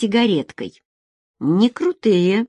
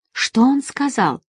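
higher, slower worried question; uneasy and slow, pitched up; 6 semitones higher than usual. A narrator's reading. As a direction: anxiously ask what was said. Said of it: "обеспокоенно спросила Надежда".

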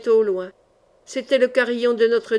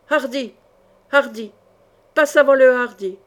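rallying call, building louder; battle cry; 5 dB louder than usual. A narrator's reading. Knight spurs his horse away, rallying battle cry. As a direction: call out the war cry, loudest on the last phrase.

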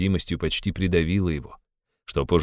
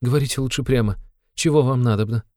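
higher cry of suffering; anguished cry; 6 semitones higher than usual. Acted. Sonya begs Raskolnikov to say what he wants, higher anguished cry. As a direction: beg him to speak plainly, in pain. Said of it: "вскричала с страданием Соня".

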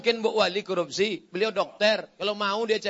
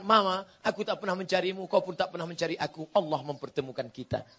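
lower, softer intimate declaration; husband wooing wife; 4 semitones lower, 5 dB quieter than usual. Acted. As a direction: tell her gently in a lowered voice. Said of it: "Pulang dari sini katakan". (suami merayu istri dengan suara lembut)

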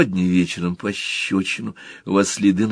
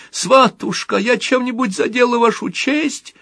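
plaintive mother voice; 14 semitones higher than usual. Pretend. Little Motl plays the mother, whining plaintively. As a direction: whimper it like a put-upon mother. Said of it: "Мотл маленький".

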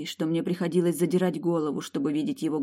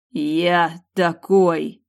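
roared, very slow and louder; loud growl; 8 dB louder, much slower than usual. A narrator's reading. Mercenary roars back at the girl, very slow and loud. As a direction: bark it back at her. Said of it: "громко рыкнул он".

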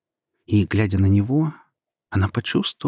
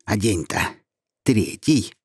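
snide. Acted. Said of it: "ехидно ответил голос".

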